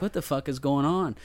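lightly puzzled retold question; mild confusion. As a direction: wonder it half to yourself, bewildered. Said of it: "I'm just confused at this point".

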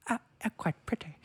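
mock-dreamy self-admiring sigh; a hint of a starry-eyed young bride; Keira Knightley impression. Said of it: "That's what she".

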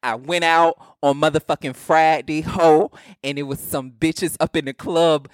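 mock-mad rant in a strong Southern accent; Southern-accented club complaint, slangy and emphatic. Real, not acted. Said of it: "That was very southern".

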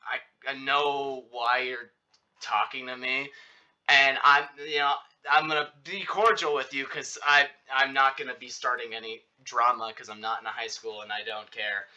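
casual, unbothered delivery at an easy pace; nonchalant. Retold or imitated. Telling the guy he wants no drama, nonchalantly. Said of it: "nonchalantly just being like".

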